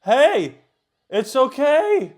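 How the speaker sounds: high, loud shout of reassurance; urgent high yell; calling out urgently. Real, not acted. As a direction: call out at the top of the voice, stretched out. Calling out to the screen.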